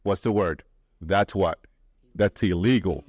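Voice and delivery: realtor's reaction. Retold or imitated. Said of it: "the realtor immediately says".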